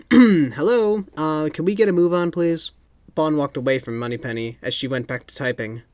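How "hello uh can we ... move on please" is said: impatient. A narrator's reading. Impatient interruption.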